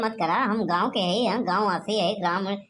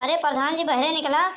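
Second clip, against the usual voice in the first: higher pitched call from outside the house; yelling to be heard indoors; calling out loudly; 5 semitones higher than usual. Acted. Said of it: "क्यों चिल्ला रहे हो".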